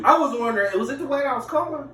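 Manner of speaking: high-pitched, tentative asking; mock meek questioning. Boyfriend asking girlfriend about his calls, meek high voice. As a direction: ask it high, as if afraid to offend.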